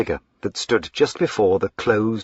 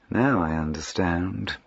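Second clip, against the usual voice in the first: placid; 3 dB quieter than usual. Acted. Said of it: "he said placidly".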